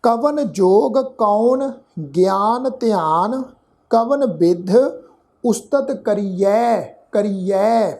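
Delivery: slow Gurbani reading, each word drawn out; measured scripture recitation. Shown as a demonstration. Teacher showing the congregation how to read the verse, slow measured recitation. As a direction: recite deliberately with pauses between words.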